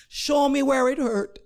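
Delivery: high, insistent Jamaican nurse; firm Jamaican-accented demand; thick Jamaican accent. Retold or imitated. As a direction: press for an answer in thick Jamaican. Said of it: "in a thick Jamaican accent".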